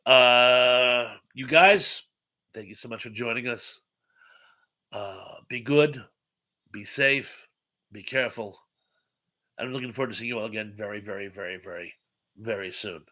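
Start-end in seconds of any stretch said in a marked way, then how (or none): 4.9-8.6 warm. Real, not acted. Slow tender farewell. 9.6-13.0 fast, then fading softer and lower. Real, not acted. Fading farewell.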